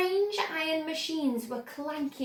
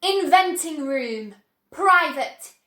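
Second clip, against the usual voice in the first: proclaiming the door sign; sign read out; 7 dB louder, slower than usual. Acted. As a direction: sign words read loud and slow. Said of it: "On the door it said".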